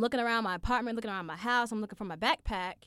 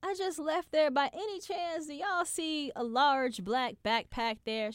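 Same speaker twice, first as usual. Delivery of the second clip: higher sweet customer voice; polite phone voice; 7 semitones higher than usual. Retold or imitated. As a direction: sound nice on the phone. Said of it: "So I'm like".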